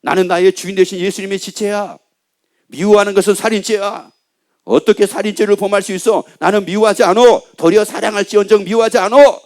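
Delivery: acted defiance, rising to an emphatic finish; resolute believer. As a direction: rebuff the tempter with growing force. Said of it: "마귀하고 연합을 안 한 사람은".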